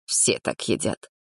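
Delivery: whispered, timid mumble; young man answering the girls timidly; timid remark. Acted. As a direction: say it shyly, barely voiced. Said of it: "робко заметил Саня".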